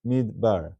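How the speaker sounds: "midbar" as mid-bar, no vowel after the d; two syllables. Shown as a demonstration. Teacher counting the syllables for students, two-syllable demonstration. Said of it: "two syllables".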